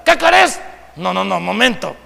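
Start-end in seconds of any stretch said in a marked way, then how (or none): 0.0-0.6 mock yell from upstairs, higher and louder; imitated shout. Child yells back down to calling parent, imitated shout. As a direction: imitate a curt shouted answer. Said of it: "de arriba le gritan".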